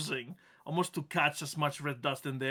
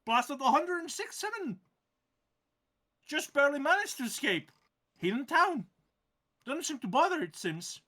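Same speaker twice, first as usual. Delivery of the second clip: grumpy plant voice; 9 semitones higher than usual. Acted. GM holds plant voice.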